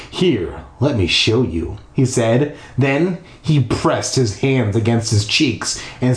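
measured storytelling read; story narration. A narrator's reading. Narrator leading listeners through a creepy house, storytelling voice. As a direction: read it out with deliberate pacing.

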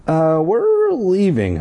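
a touch of fear, pitched high; trembling. Acted. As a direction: stammer it out scared. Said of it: "in a trembling voice".

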